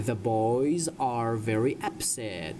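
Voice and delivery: slow, deliberate sentence for learners; slow model reading. Shown as a demonstration. Teacher reads a story sentence to English learners, slowly. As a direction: draw each word out for students.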